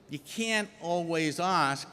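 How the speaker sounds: slow Rhode Island drawl on "ask"; Rhode Island accent. Shown as a demonstration. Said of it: "Notice that Rhode Island accent".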